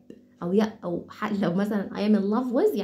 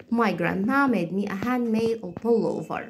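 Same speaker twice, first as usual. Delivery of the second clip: slow and clear; much slower than usual. Shown as a demonstration. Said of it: "مرة بقرأ لكم الجملة بشكل هادي".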